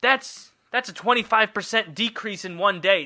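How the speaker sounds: terrified panic. Acted. Cain realising God will find out, panicked. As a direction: blurt it out, then reckon up the disaster. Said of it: "he's terrified".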